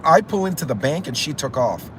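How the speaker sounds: ordinary talk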